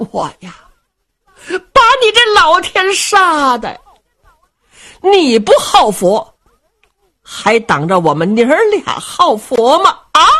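a lightly voiced old woman scolding her husband, pitch jumping high on the curse; mock-angry wife pointing at him and telling him off; old lady, worked up. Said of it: "老夫人就急了". (老太太着急地数落老伴儿)

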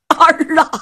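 high, choked-up call to her son; a grieving old mother crying out; mother's weeping cry. Acted. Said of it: "老太太已然泣不成声了".

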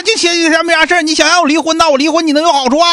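hammed-up daughter nagging her mother; mock scolding rant. Host acting out the caller scolding her mother, mock rant. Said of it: "一顿吵吵".

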